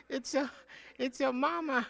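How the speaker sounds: a light mimic of the grandson's accent on "It's your mama"; playful retold accent on "it's your mama"; imitating grandson's accent. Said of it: "because he had an accent".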